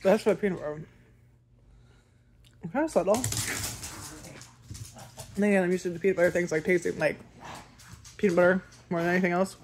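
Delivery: chewy muffled speech; talking while chewing. Real, not acted. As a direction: mouth partly full of food. Seen 2: Bites bar at -12; closed-lip chewing and bar visible during the words.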